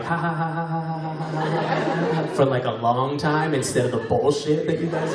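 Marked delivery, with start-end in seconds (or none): 0.0-2.3 imitated crowd laughter. Comic describing his favourite crowd reaction, imitated laughter. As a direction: act out an audience laughing on and on. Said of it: "people in the crowd are like".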